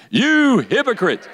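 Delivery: high, drawn-out accusation; hammed-up, high-pitched rebuke; dramatic rebuke. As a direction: ring it out slowly as a preacher's denunciation. Leads congregation in repeating the rebuke.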